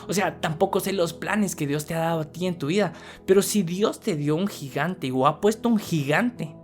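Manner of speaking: ordinary delivery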